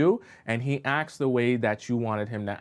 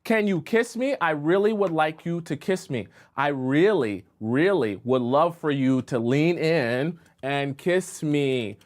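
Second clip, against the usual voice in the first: mock yelling; 2 semitones higher than usual. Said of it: "no matter how many times you yell it".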